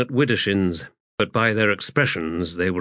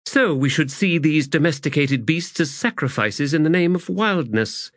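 high-pitched, questioning character voice; troubled Aranict; 7 semitones higher than usual. Acted. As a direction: press the thought with unease.

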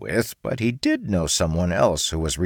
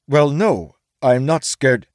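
higher, louder flustered denial; defensive samurai; 8 semitones higher, 6 dB louder, slower than usual. A narrator's reading. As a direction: samurai insisting he is not scared. Samurai denies.

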